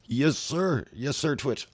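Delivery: terrified thug begging the swordsman; scared yes sir. Retold or imitated. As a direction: blurt it out in panic.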